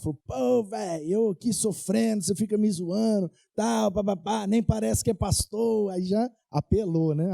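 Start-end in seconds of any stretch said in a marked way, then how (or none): 0.3-5.9 mildly indignant retold complaint; annoyed friend. Friend scolds the pastor for mocking his suffering, mildly annoyed. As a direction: imitate a friend protesting at being teased. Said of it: "ele olhou e ficou bravo".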